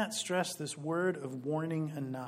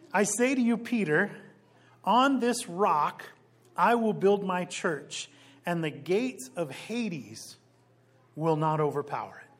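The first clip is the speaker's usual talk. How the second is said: booming proclamation; 3 semitones higher, 6 dB louder than usual. Acted. Preacher proclaims Jesus' words.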